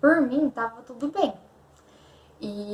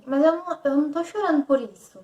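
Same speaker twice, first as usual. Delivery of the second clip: higher-pitched, mildly whiny retelling; retold tearful protest; 5 semitones higher than usual. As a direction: act out protesting through tears, lightly. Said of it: "eu chorei muito esse dia". (protesto choroso, encenado de leve)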